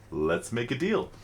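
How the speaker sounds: slow, lightly imitated Indian accent; Indian shopkeeper. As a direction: draw it out like an Indian shop owner, lightly done. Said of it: "In his deep Indian voice".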